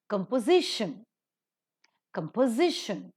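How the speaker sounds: Composition accented on SI, said twice; stress before shun. Shown as a demonstration. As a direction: model compo-SI-tion with a pause between repeats. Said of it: "these words that are pronounced".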